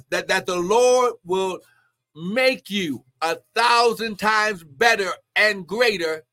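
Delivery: slow, weighted preacher's promise; forceful preaching. Real, not acted. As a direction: stretch out the promise with emphasis.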